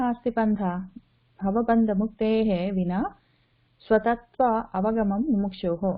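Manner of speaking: solemn verse recitation; shloka recitation. Acted.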